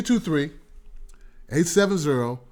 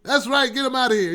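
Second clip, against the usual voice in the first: failed Trump impression; 7 semitones higher than usual. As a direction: overdo the shouting Trump. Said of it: "Trump don't sound like that".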